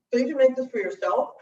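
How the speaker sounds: talking with a mouthful of food; words pushed around a bite; mouth full. Real, not acted. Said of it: "you shouldn't talk with your mouth full".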